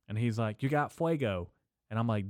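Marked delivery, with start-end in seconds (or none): 0.6-1.5 higher-pitched mock pestering question; imitating geeked-out guy. Geeked-out stranger asks couple for a lighter, lightly mimicked. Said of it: "severely geeked out of his mind".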